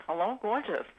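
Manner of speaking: a hint of Brooklyn accent greeting. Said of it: "Brooklyn accent".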